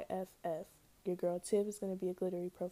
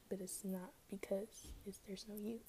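whispered, confiding aside; 9 dB quieter than usual. Real, not acted. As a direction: drop to a whisper to let them in. Aside about her spam name.

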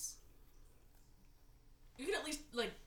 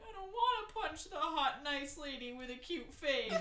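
slow, higher mock voice of a smitten tough guy; goofy tough guy; 4 semitones higher than usual. Tough guy gushing over a cute lady, slow and mock. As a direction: play him sweetly dopey.

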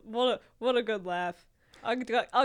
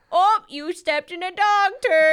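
mocking teasing; 9 semitones higher, 10 dB louder than usual. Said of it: "Embarrassed would be like".

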